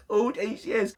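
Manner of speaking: giggling through the dramatic line; laughing mock betrayal. Vlogger laughing at his own mock betrayal of his parents.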